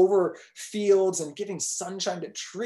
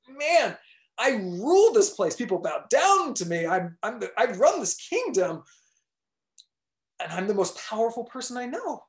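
a lightly voiced proud king, a bit higher; boastful king; 4 semitones higher than usual. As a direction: brag about your kingdom, chest out.

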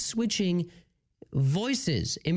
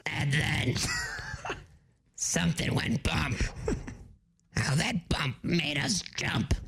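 grandma voice; slower than usual. Acted. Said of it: "you're gonna like my grandma".

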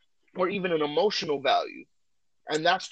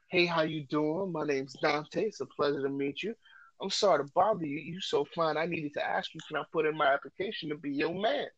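smooth pickup line; 5 dB quieter than usual. Shown as a demonstration. Host demonstrating his pickup line to a woman, soft and smooth. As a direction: ease into the line softly like a charmer. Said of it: "I say".

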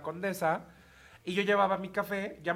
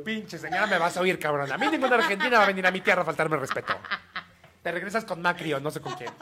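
mock furious rant. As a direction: rant like you're losing it, half joking. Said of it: "le ganó el enojo".

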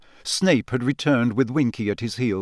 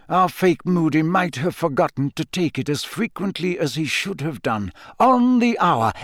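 lightly voiced kindly old wizard; gentle, knowing old professor; wise old headmaster; 6 semitones higher than usual. Dumbledore voiced by narrator.

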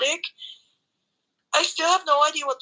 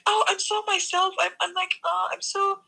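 higher, mocking self-important voice; mocking Cara; 4 semitones higher than usual. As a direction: parody her smugness. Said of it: "she's always like".

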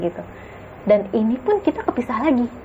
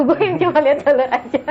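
laughing; 6 semitones higher than usual. Real, not acted. Laughing at own fear.

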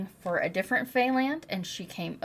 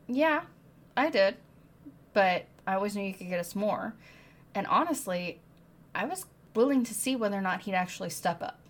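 defiant retort; 2 semitones higher, 4 dB louder than usual. Acted. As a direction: fire it back, unapologetic. Nesta answers her sister defiantly.

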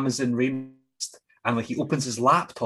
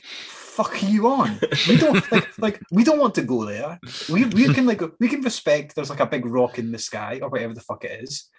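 high, loud incredulous voice; bewildered and a bit indignant; mock tribesman refusing to go to the moon; incredulous villager; 5 semitones higher, 4 dB louder than usual. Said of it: "native folk are looking at him just like".

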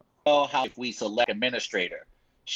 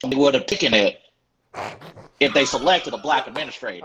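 lightly put-on southern accent, louder; 3 dB louder, faster than usual. Cohost asks him to reread the quote, light Southern accent. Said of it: "say it in a southern voice".

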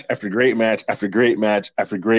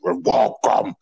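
evil villain voice; much slower than usual. Retold or imitated. Podcaster imitating the wrestler's evil welcome, slow and menacing. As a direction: drag it out like a creepy villain.

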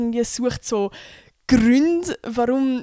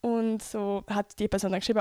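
ordinary talk

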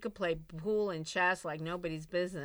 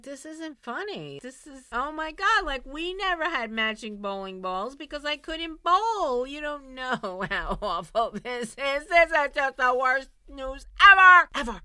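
higher, rising to a loud wail; mock distraught wail; 6 semitones higher, 7 dB louder than usual. Telling laughing friends the bowling-ball news, mock wail. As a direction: overplay the heartbreak. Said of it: "I was like".

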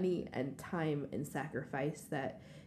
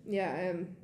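emotional. Real, not acted. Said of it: "sorry I'm so emotional".

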